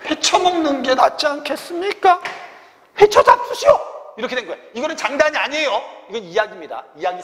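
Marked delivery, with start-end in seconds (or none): 3.0-3.8 high, loud mock exclamation; defiant cry. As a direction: throw it out as a cheeky, high-pitched shout. Soldier's defiant retort, acted. (높고 크게 외치는 능청스러운 말투)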